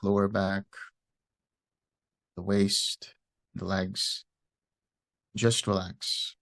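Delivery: unhurried meditation guidance with long pauses; guided meditation. Real, not acted. Teacher guiding listeners through loving-kindness meditation, calm and unhurried. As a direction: ease listeners into relaxing, leaving space after each phrase.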